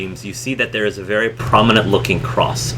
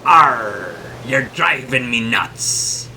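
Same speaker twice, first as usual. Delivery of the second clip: slow, drawn-out magical carving voice; put-on voice of a talking carving, dragging the words; 2 semitones higher, slower than usual. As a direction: groan it out slowly like an enchanted figurehead. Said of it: "this magical voice says".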